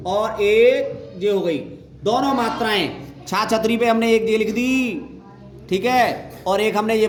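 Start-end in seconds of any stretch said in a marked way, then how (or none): 0.1-1.6 slow, spelled-out repeat. Shown as a demonstration. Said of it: "देखो एक जे हो गई".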